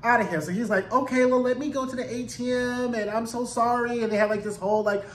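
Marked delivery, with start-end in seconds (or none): 0.9-4.0 mock flustered apology. Albie apologizing to Lucia.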